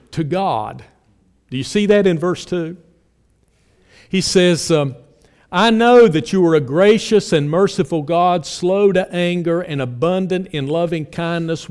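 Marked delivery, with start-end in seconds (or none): 5.5-11.7 firm, emphatic recitation starting loud; scripture quotation. Acted. Preacher quoting Jonah's words to God, emphatic recitation. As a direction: declare the verse, then ease off.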